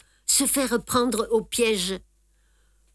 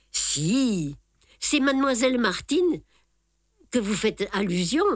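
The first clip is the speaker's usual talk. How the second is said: curt dry tone. Acted. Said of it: "dis-je d'un ton sec".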